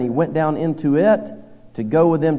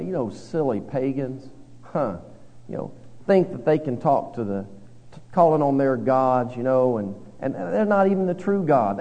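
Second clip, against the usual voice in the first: mocking eye-roll. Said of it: "we kinda roll our eyes".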